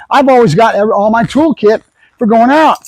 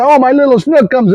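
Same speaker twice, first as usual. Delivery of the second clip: mock baby talk; 5 semitones higher than usual. Owner coddling dog on couch.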